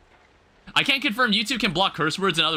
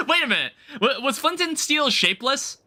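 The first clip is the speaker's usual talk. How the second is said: high, laughing astonishment; laughing disbelief; 8 semitones higher than usual. Real, not acted. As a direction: ask it baffled, through real laughter. Baffled by surprise recipe, still laughing.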